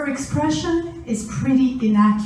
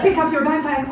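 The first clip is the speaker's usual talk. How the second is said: a neutral "Pick up your backpack"; just ask her simply; plain parent request; 6 semitones higher, 5 dB louder, faster than usual. Shown as a demonstration. Parent asks daughter to pick up backpack, plainly. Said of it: "it could be".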